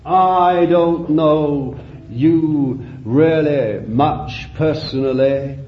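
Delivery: drawn-out, deliberate sermon phrases; measured pulpit exhortation; solemn preaching. Real, not acted. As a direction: press it home slowly, phrase by phrase.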